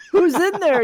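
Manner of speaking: a half-acted demanding call; mild narrated yell. A narrator's reading. Game narrator voices whoever is at the door, mild yell. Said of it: "yells the voice".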